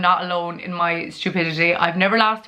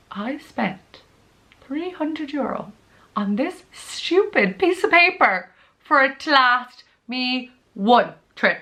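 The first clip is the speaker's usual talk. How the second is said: high, slow, indignant complaint; retelling her outburst at the officer, high and slow with disbelief; outraged disbelief; 6 semitones higher, slower than usual. Retold or imitated. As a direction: stretch it out in disbelief, pitched way up. Outraged at the one-trip passport.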